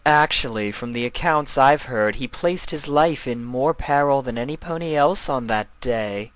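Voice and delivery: Nightmare Moon. Acted. Nightmare Moon correcting Chrysalis, a regal, lecturing voice. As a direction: correct them with cool authority.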